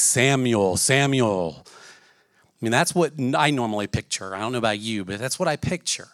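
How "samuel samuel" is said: voice of God. Pretend. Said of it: "this voice comes out and speaks".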